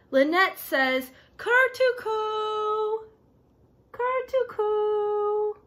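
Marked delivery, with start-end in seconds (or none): 1.4-5.5 "Kurtuku" stretched out slowly, syllable by syllable; slow word demo. Shown as a demonstration. Teacher slowly pronouncing a foreign word for kids. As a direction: say "Kurtuku" slowly and clearly for children to copy. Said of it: "Do you see how".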